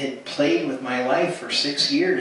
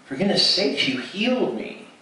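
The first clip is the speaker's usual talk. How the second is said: higher, with a touch of incredulous exclaiming; exclaiming in disbelief; 7 semitones higher than usual. Retold or imitated. Former client telling his masseuse she healed him, incredulous. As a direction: throw it out like he can't believe she doesn't know.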